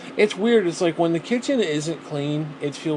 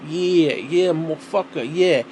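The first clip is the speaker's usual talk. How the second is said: mock New York accent; slower than usual. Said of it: "talking like this".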